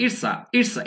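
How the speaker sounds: "it's a" run together as one word, "itsa"; linked contraction. Shown as a demonstration. Teacher showing learners linked speech, "it's a" said as one. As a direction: link "it's a" with no gap. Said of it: "একসঙ্গে বল".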